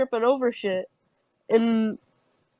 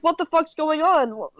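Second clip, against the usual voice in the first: higher-pitched mock bewilderment; retold bewilderment; 6 semitones higher than usual. Girl retelling her shock at the magic heart, acted bewilderment. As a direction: retell being totally baffled.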